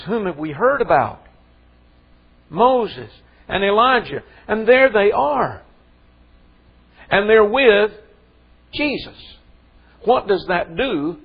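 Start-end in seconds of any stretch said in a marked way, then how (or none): 2.5-9.2 rising awe. Real, not acted. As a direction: voice climbs higher and louder, slow and amazed. Building awe at the transfiguration.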